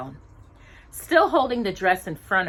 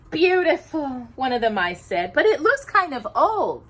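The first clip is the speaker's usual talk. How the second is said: much higher tiny mouse; 6 semitones higher, 5 dB louder than usual. Acted. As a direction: squeak it like a little mouse. A mouse voiced in story.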